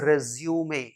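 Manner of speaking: resume said "REZ-yoo-may"; correct pronunciation. Shown as a demonstration. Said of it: "resume नहीं". (resume का उच्चारण "रेज़्यूमे")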